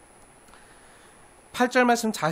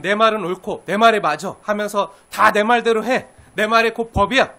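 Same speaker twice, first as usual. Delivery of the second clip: louder, domineering decree voice; arrogant prime minister; 2 semitones higher, 7 dB louder than usual. Retold or imitated. Joseph as prime minister ordering the nation, domineering and loud. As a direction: lay down the law, brooking no argument. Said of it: "그럼".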